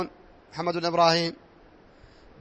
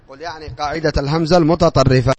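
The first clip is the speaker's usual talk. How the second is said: louder dictation repeat; 3 semitones lower, 7 dB louder than usual. Shown as a demonstration. Teacher repeating a dictation line to pupils, louder. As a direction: repeat it louder so the class can write it down.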